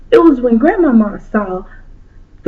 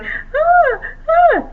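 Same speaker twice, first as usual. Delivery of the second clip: high sobbing gasps. Acted. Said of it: "kept crying".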